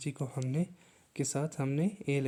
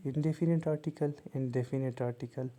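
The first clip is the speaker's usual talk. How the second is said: slow dictation=14; much slower than usual. Shown as a demonstration. Naming types slowly.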